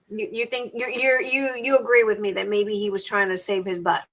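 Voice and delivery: chewing while talking; talking through a mouthful of food; mouth full. Real, not acted. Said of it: "I'm sorry if I'm chewing".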